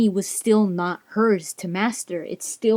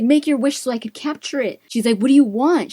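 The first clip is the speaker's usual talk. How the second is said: higher-pitched insistent prompting; pitched-up imitation of urgency; retold eager urging; 5 semitones higher, 3 dB louder, faster than usual. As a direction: press him impatiently, as her. Retold urging him to wish.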